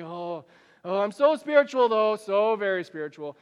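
loud, hammed-up boasting about being spiritual; mock pious boast. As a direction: show off your fasting, overdone and smug. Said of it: "and you're like".

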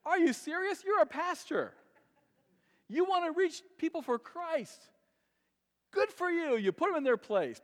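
loud, high-pitched disbelief; incredulous scolding. Acted. Preacher reproaching a pastor friend for the Facebook rant, incredulous and loud. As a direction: take the ranter to task, voice pushed up high.

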